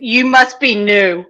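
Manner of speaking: slow, put-on voice stressing must; host teasing as the father-in-law; mock knowing voice. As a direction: drawl it out like a wise guy. Host mocking in character voice.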